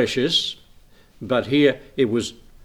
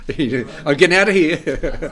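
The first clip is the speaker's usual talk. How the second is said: imitating little boy fleeing; 4 semitones higher, 4 dB louder, slower than usual. Child fleeing coughing grandfather.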